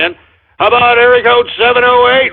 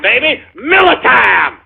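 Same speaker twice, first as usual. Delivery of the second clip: shouted cheer. Real, not acted. Host hyping the holiday weekend to listeners, shouted cheer. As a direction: belt it out like a beer ad.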